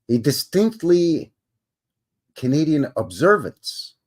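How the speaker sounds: "distinctly" spelled out slowly and deliberately, each syllable clear; slow down and land "distinctly" carefully; slow careful reread. Shown as a demonstration. Host rereads after stumbling, slow deliberate "distinctly". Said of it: "a guy can't even read tonight".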